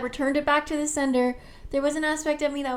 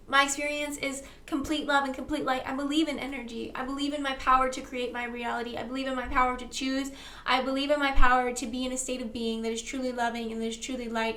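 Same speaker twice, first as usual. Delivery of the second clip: spoken affirmation. Acted. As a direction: declare each line as settled truth.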